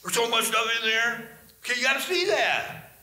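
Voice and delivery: amazed. Retold or imitated. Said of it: "You'll be like".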